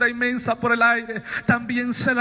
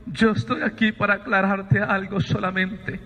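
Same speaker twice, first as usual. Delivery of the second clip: measured, solemn voice with long pauses; voice from the light. Retold or imitated. Voice tells Sabino why it has come, measured and solemn. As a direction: set each statement apart gravely. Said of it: "Me dice".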